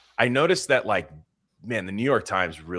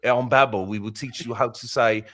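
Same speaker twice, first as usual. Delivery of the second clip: mock British commercial pitch, slightly louder and higher; British accent; 5 semitones higher, 5 dB louder than usual. Podcaster mimicking a language app commercial, exaggerated British accent. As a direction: put on an odd British salesman accent. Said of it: "he had the black guy British accent".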